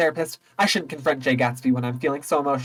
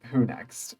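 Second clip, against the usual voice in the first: muttered who next; 2 semitones lower, 5 dB quieter than usual. Shown as a demonstration.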